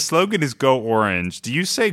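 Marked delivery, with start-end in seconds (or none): 0.5-1.4 "Orange" as OR-inj, rhyming with door hinge. Shown as a demonstration. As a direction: say "Orange" starting on a clear OR. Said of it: "The emphasis is on, is on O".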